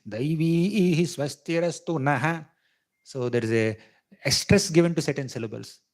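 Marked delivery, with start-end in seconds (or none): 0.1-2.4 Daivi slowed and stressed with a rise; stressed syllable. Shown as a demonstration. Teacher demonstrating stress on Daivi. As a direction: lean on Daivi slowly, lifting the tune. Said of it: "Anudartha means you stress it".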